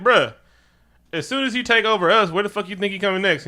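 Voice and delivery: mock exasperated persuasion; exasperated argument. Acted pleading argument with M'Baku.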